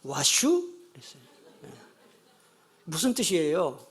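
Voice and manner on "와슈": lightly voiced Chungcheong barber greeting; a hint of Chungcheong dialect, rising at the end. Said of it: "충청도 이 이발소 주인 아저씨가".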